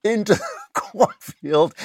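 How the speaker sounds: laughing through the words. Real, not acted. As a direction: giggle while telling it. Laughs while retelling the clip.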